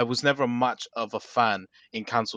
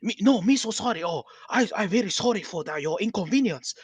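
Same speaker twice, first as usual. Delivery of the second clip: put-on high sing-song caricature Asian accent; exaggerated fake Asian accent, pitched high; mock Asian accent; 7 semitones higher than usual. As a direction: imitate comedians' hammed-up broken-English Asian accent. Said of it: "or they do the, uh".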